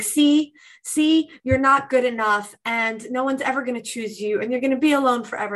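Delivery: mock the nagging voice in your head, fast at the end; inner critic voice. Coach voices the inner critic to the podcast host.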